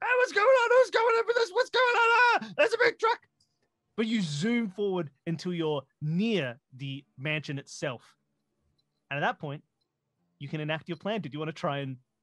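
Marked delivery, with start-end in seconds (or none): 0.0-3.2 very high, loud cartoon guard voices shouting. Narrator voicing guards at the gate as a truck bursts in, shouting cartoon guard voices. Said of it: "the shouting voices of cartoon guards".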